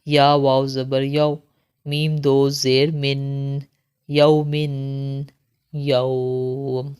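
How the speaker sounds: slow, chanted letter-by-letter spelling; Qaida drill recitation. Shown as a demonstration. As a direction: spell each syllable out, then join and stop. (قاعدہ کی ہجے والی قراءت)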